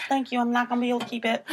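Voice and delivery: playful put-on Southern accent. Friend thanking her co-host for praising it, Southern accent. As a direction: hold a Southern twang while starting to crack up. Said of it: "that's a pretty good Southern accent".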